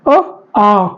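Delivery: अ short then आ long, both from the throat; vowels from the throat. Shown as a demonstration. Teacher showing students throat vowels अ and आ. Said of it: "कंठ से बोल रहे हैं".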